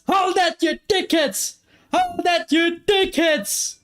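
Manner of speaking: high, drawn-out jeering shout; gleeful taunt. Real, not acted. Fan jeering the beaten Barcelona side, gleeful shout. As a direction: rub it in their faces.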